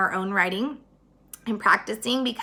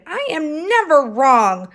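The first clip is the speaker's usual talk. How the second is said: indignant insistence; 3 semitones higher, 5 dB louder than usual. Acted. Eugenia insists loudly.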